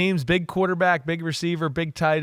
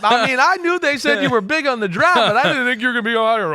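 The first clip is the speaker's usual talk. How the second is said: high, loud retold holler of amazement; awestruck outburst; 9 semitones higher, 5 dB louder than usual. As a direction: re-enact blurting it out at a huge player. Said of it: "I looked at him and went".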